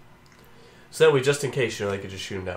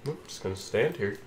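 oblivious guard; 11 dB quieter than usual. Retold or imitated. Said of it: "He just".

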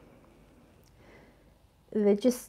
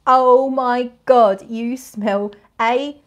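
excited; 4 semitones higher, 8 dB louder, much slower than usual. Real, not acted. Gushing over a viewer's perfume.

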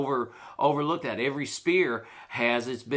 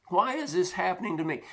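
faster, pressing echo of the complaint, pitched up; quick repeated lament; 5 semitones higher, faster than usual. Retold or imitated. Preacher voicing the believer, quicker anxious echo. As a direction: rush the repeat like rising worry. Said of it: "And we wonder".

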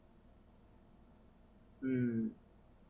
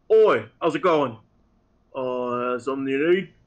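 gruff British bloke; Oi, say it like a cocky lad; Scott's voice; 2 semitones lower than usual. Acted. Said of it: "that what Scott sounds like?".

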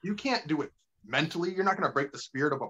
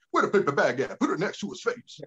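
mock black voice; 2 semitones higher than usual. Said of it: "I'm assuming that's how black people talk".

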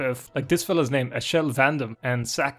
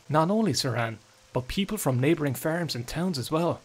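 ASMR creepypasta reading. Pretend. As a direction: read it like a spooky ASMR story. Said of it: "my best A S M R voice".

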